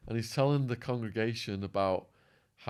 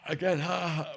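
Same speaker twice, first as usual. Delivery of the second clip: high gasped "ha" with a failing voice; imitated "ha"; 7 semitones higher than usual. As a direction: try his "ha" as your voice gives out. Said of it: "My voice is going, but it's like".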